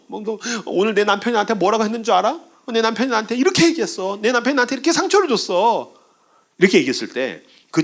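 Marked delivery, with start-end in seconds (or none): 0.1-5.9 higher-pitched acted wife complaining to friends; mock hurt indignation; aggrieved venting. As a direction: vent about a hurtful husband, playfully hammed up.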